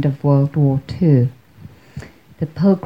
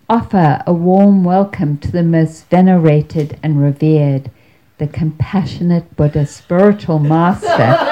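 louder, rising emcee call with a laugh at the end; announcer voicing the grand welcome, building to the name; mock emcee announcement; 2 semitones higher, 4 dB louder than usual. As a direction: ham up the big stage introduction. Emcee announcing the keynote speaker.

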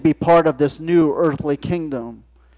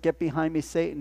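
softer, plain-pitched quote; quiet quote; 8 dB quieter than usual. Acted. Preacher quietly recalling Jesus' rebuke, soft. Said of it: "what Jesus said".

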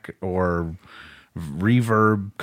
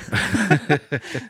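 giddy laugh; 7 semitones higher than usual. Real, not acted. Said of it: "You got me thinking of seeing them live".

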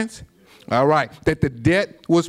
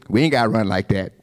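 defiant player; 2 semitones lower, faster than usual. Retold or imitated. Player from out of town.

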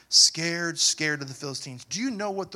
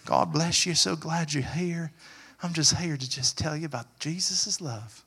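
put-on southern accent. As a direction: greet them like a Southern preacher, a hint of Southern. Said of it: "Maybe I should talk in a southern accent".

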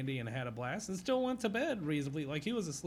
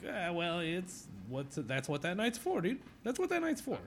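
laid-back dad quote; 5 semitones higher than usual. Retold or imitated. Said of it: "I would have been like".

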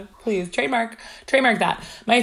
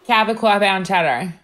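put-on Cabot said with a thick Long Island accent; 3 semitones higher, 4 dB louder than usual. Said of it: "Can you say that in your Long Island accent?".

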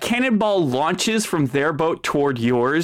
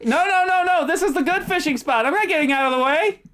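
rival fisherman; 8 semitones higher, faster than usual. Acted. GM voices rival fisherman refusing.

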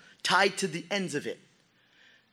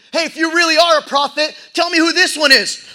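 loud, high jeer; jeering taunt; 11 semitones higher, 12 dB louder than usual. Acted. Soldiers taunt the beaten prisoner, loud and jeering. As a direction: sneer at the prisoner.

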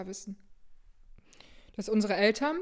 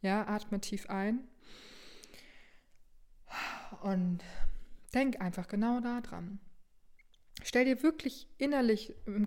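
guided visualization. Acted. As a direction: lead them gently into imagining. (sanfte Fantasiereise)

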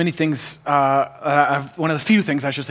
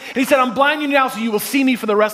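high-pitched, building sermon delivery; rousing preacher in full flow; impassioned preaching; 8 semitones higher than usual. Real, not acted. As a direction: preach it up to the congregation. Preaches building examples at full force.

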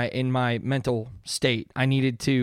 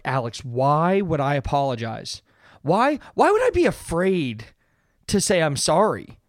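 incredulous objection. Acted. Someone out there challenging Alex about apologizing, mock incredulous. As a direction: push back in mock disbelief. Voicing a listener who objects.

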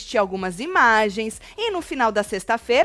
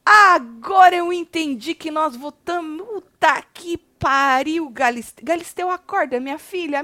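incredulous rant; 6 semitones higher than usual. Real, not acted. Venting at the host.

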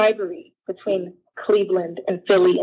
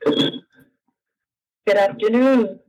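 on speakerphone; much slower than usual. Real, not acted. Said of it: "you're on speaker right now".

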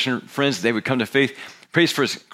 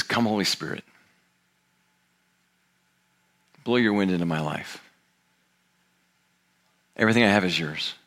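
lower, unhurried prayer with long pauses; prayerful surrender; 4 semitones lower than usual. Acted. Man praying to the Holy Spirit in surrender, prayerful. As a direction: pray it simply, handing yourself over phrase by phrase.

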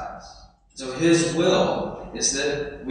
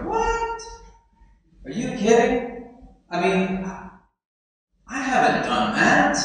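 much higher, flustered protest; mock indignant disbelief; 6 semitones higher than usual. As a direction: squeak it out like caught red-handed. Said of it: "And they go".

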